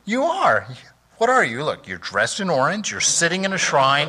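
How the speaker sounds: high, loud scolding of himself; inner voice scolding. Retold or imitated. Monk hearing his own inner voice, loud, high scolding. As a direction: snap at yourself for being a fool. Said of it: "I thought".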